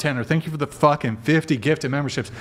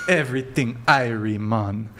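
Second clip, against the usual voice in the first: mock Jamaican. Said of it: "like I'm Jamaican".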